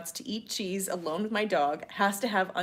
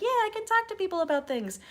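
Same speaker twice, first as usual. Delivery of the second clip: chirpy self-imitation; 12 semitones higher than usual. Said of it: "and I'm just like".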